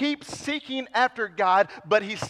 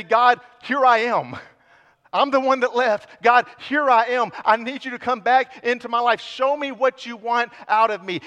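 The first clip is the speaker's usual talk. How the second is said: loud plea; 4 semitones higher, 6 dB louder than usual. Pretend. Contrasted humble prayer.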